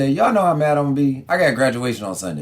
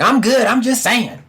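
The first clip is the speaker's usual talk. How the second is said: fake calm; 8 semitones higher, slower than usual. Fan pretending not to be mad.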